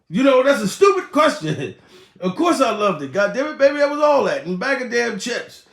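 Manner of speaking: high, hammed-up exasperated reassurance; mock exasperation. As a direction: raise the pitch as if the answer were obvious. Acts out reply to lover's question.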